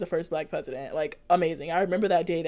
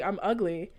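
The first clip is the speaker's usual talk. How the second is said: imitating an offhand remark; retold casual remark; 4 dB quieter, slower than usual. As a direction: say it casually, as the child did. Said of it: "she just said it so casually".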